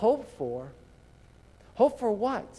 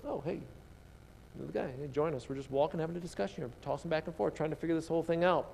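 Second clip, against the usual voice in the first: casual greeting; 8 dB quieter, faster than usual. Retold or imitated. Disciples greet the stranger.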